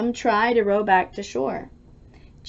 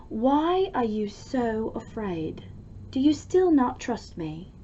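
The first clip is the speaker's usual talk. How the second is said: gentle question; 3 dB quieter than usual. Acted. Jesus speaks to frightened friends.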